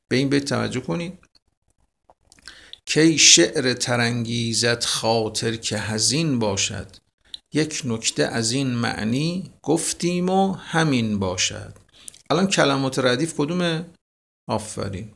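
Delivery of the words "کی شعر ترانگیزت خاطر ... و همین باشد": teacher reciting Hafez; poem recitation. Acted. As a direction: recite it like classical poetry. Recites a verse.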